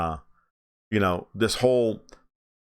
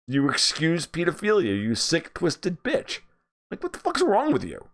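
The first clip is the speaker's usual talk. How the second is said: much higher-pitched, incredulous outrage; mock outraged tirade; 9 semitones higher than usual. Imagined confrontation with a TV host, high-pitched outrage. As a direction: pitch climbs into indignant disbelief, without shouting.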